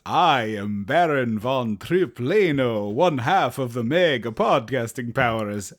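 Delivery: slow, drawn-out villain announcer; grandly pompous podcast intro; announcer bit voice. Pretend. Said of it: "I promise I'm not going to continue this bit".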